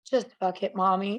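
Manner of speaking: deadpan imitation of a child; serious little daughter. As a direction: repeat it earnestly, as the daughter did. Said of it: "so serious and so perfect".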